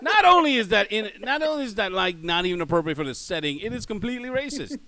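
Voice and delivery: high, incredulous laughing objection; laughing protest. Real, not acted. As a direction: protest through real laughter. Laughing at player's slip.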